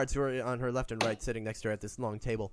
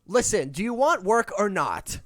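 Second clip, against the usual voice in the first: impatient queen; 6 semitones higher, 8 dB louder than usual. Acted. Queen snaps at the party.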